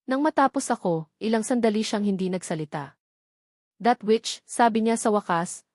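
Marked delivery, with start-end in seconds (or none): 3.8-4.4 a mild, held-in anger, calm on top; calm but fierce. Acted. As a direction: keep it level, let the bite show. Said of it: "kalmado, ngunit may nakatagong bagsik".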